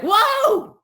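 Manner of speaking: high, loud startled gasp of a word; startled whoa. Retold or imitated. Passenger jolted by turbulence, startled whoa. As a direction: jolt of fright at turbulence. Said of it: "you're like".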